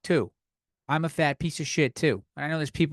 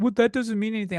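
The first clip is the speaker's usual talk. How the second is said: mock indignant critic; 6 semitones higher, faster than usual. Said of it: "And they're like".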